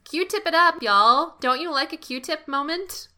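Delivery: high, loud cheer; excited. Real, not acted. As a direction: hype it up like a cheer. Cheering on the listeners.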